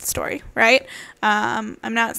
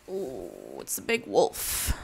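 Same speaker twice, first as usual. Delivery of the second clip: hushed; 9 dB quieter, slower than usual. Acted. Suspense in story reading.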